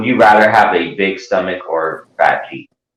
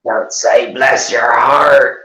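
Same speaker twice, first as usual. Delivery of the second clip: insistent; 6 semitones higher, 3 dB louder, much slower than usual. Acted. Insistent slow scolding.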